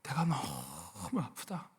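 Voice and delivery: slow, soft mock groan of pain; pained parent. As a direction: drag it out like a hurting parent. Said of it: "가슴이 아파서 어쩔 줄 몰라 한다". (느리고 힘없이 아픈 척하는 부모)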